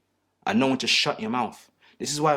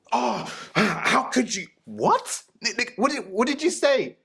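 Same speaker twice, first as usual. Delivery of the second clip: high, slow, whiny put-on girl; mock girlfriend voice; 9 semitones higher, slower than usual. Mocking how a girlfriend talks to her man, high whiny voice. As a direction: pitch it up and whine like an offended girlfriend.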